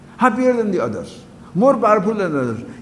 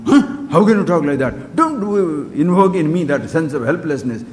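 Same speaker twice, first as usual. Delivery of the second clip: hammed-up offended retort, louder; mock indignant protest; 3 semitones lower, 4 dB louder than usual. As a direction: play the insulted listener, pushing back loud. Acts offended listener's retort.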